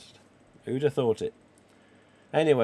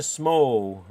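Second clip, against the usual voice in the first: "small" drawn out slowly and louder; stress on small; 6 dB louder than usual. Real, not acted. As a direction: lean on "small", stretching it out. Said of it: "I do emphasise the word".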